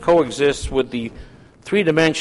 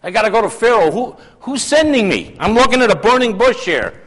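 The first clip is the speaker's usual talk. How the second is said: higher, puzzled Moses questioning God; Moses, bewildered; 7 semitones higher than usual. Acted. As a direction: play Moses, lost at the burning bush. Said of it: "and Moses says".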